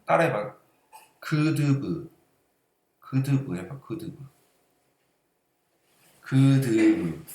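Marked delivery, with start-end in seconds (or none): 1.2-7.2 holding the nose closed; said with a pinched nose; pinching nose. Shown as a demonstration. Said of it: "코를 막고 따라해봐".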